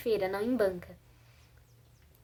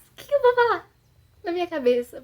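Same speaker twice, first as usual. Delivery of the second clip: retold panic; 7 semitones higher, 9 dB louder than usual. Panicked thoughts holding the microphone.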